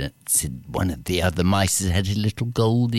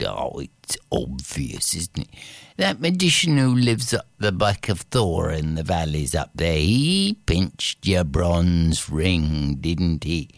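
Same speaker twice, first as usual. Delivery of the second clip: put-on knowing old man; 3 semitones lower than usual. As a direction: explain it like a wise old man.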